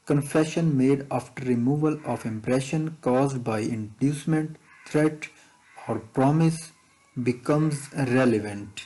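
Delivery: slow, deliberate dictation pace; teacher reading an exam question slowly. Shown as a demonstration. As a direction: read it out word by word for students to follow. Reads exam question text aloud.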